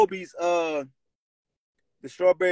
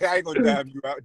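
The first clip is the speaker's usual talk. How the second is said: laughing; faster than usual. Retold or imitated. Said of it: "I'm like".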